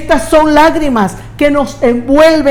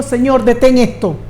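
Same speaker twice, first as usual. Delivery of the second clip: mock plea. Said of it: "Él no dijo".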